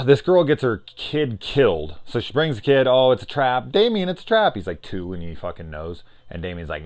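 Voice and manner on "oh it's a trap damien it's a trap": rising, high alarmed cry; hammed-up frantic warning; mock warning shout. Mother warns Damien.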